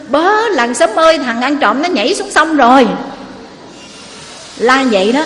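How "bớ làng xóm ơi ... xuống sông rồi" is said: calling out to villagers. Acted. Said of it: "anh ta la lên".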